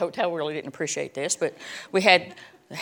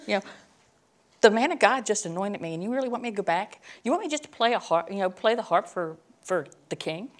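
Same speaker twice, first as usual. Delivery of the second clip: indignant complaint; 3 semitones higher than usual. Pretend. Imagined complaint to God.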